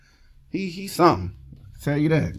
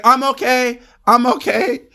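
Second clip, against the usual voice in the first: dazed guy insisting; 10 semitones higher than usual. Retold or imitated. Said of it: "And bro said".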